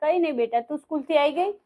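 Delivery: put-on soft, hushed reassurance to child; hushed mother. Mother hides crying from daughter, soft hushed. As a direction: hide the tears, speak softly.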